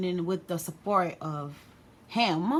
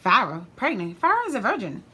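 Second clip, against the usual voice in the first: higher, louder mock disbelief; incredulous mom; 3 semitones higher, 4 dB louder than usual. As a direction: act out a mother refusing to believe it.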